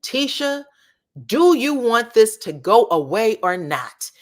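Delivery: rising to a loud, high demand; mock scolding. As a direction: lay into her, building to a shout. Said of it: "he said".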